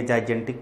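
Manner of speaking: "जाइगेंटिक" said wrongly, as some learners read it; mispronunciation. Shown as a demonstration. Teacher quoting students' second wrong reading, mispronounced. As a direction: misread "जाइगेंटिक" as a learner would. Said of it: "कुछ लोग इसको गलत प्रोनाउंशिएट".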